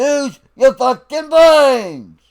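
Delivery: slow stern command; drill sergeant voice. Real, not acted. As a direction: bark the order at recruits. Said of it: "I'm having to break out my fucking drill sergeant voice".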